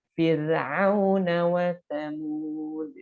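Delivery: slow chanted recitation; Quran recitation. Shown as a demonstration. Teacher recites an example with thin ra, slow chanted recitation. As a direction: chant it slowly and melodically. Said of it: "ini dibacanya tipis".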